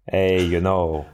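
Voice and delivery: half-hearted attempt at Dutch accent; botched Dutch accent. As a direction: try a Dutch accent and miss. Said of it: "trying to do a Dutch accent".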